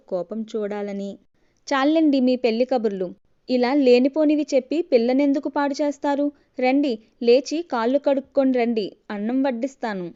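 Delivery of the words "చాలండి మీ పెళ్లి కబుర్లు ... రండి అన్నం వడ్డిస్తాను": fed-up scolding, a bit louder; irritated wife. Acted. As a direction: brush off the husband's chatter, irritated. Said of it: "అంటూ విసుగ్గా". (విసుగ్గా, చిరాకుగా)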